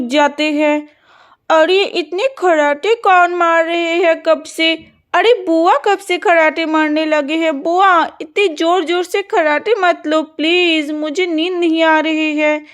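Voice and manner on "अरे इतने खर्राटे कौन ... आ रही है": lightly voiced young girl, a bit irritated; a hint of a sleepy girl complaining; sleepy daughter grumbling at the snoring; girl annoyed by snoring.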